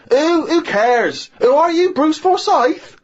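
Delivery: high, slow, scornful put-on voice; mock dismissive girlfriend. Retelling the girlfriend's put-down in a mock high scornful voice. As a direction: imitate her sneer, drawn out high. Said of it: "And she went".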